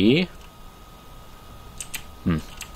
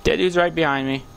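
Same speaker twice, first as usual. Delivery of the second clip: higher, urgent calls for help; panicked cries for help; 10 semitones higher than usual. Real, not acted. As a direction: yell for help, scared. Calling for help.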